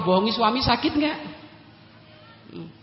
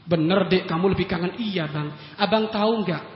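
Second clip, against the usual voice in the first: loving banter; 2 semitones lower than usual. Retold or imitated. Loving couple dialogue voiced.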